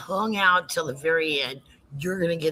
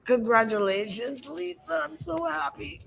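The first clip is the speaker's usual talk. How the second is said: excited; 9 semitones higher than usual. Real, not acted. Congratulating the giveaway winner.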